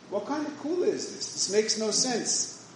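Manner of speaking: "What kind of kula is this?" asked high in disbelief, then slowed; incredulous. Real, not acted. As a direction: scoff at it as if it were absurd. Rebbe scoffs at a strange leniency.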